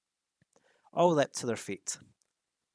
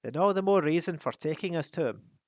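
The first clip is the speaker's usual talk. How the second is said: firm, louder insistence; Thorin's line; 5 semitones higher, 5 dB louder than usual. A narrator's reading. First take before reassigning to Fili. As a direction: press the point firmly. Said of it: "burst in Fili".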